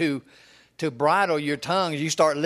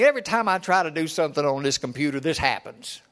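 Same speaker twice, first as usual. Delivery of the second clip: frustrated. Retold or imitated. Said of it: "he'd get all frustrated and say".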